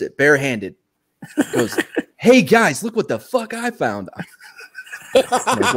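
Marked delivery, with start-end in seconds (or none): 2.2-4.1 high, excited call to the guys; excited showing off. Retold or imitated. Lieutenant shows his soldiers what he found, excited showing off. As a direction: announce your prize find, pitched way up.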